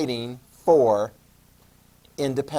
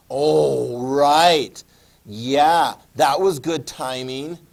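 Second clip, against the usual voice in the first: sarcastic; 6 dB louder, much slower than usual. Retold or imitated. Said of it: "is like".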